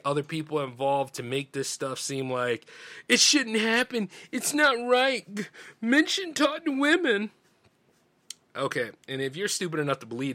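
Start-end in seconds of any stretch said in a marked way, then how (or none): 3.1-7.3 higher, slow, sing-song mockery of a silly narrative; mock-solemn parody voice, pitched high and slowed; mocking ridiculous claim. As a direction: drag it out high like a preachy scold. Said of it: "any sort of implausible, ridiculous statement".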